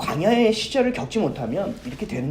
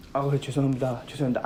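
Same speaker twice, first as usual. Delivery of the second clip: meek apology; 6 semitones lower, 7 dB quieter, faster than usual. Retold or imitated. Waiter apologizing to angry customer.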